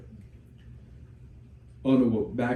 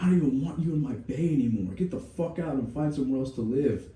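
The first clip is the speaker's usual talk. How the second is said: disgusted first sergeant; 4 semitones higher than usual. Retold or imitated. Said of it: "our first sergeant's like".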